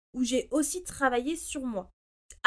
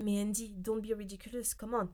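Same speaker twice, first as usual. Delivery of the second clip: lightly chiding herself, softer and quicker aside; mock-exasperated self reproach; self-scolding in English; 3 semitones lower, 8 dB quieter than usual. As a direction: talk some sense into yourself, low-key. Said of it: "car je me suis dit".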